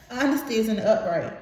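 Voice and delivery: Honesty isn't upright said through a laugh. Real, not acted. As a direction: giggle as you repeat it. Repeats card name through laughter.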